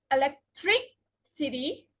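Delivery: elecTRIcity, weight on TRI; stress before suffix. Shown as a demonstration. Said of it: "the syllable just before the suffix".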